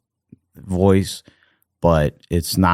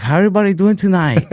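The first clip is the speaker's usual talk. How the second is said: high-pitched mock Asian stand-up comic; Asian-accented comic greeting a crowd; imitated Asian accent; 11 semitones higher, faster than usual. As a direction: put on a broad cartoon Asian accent, pitched up. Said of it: "an Asian dude going up at the Apollo".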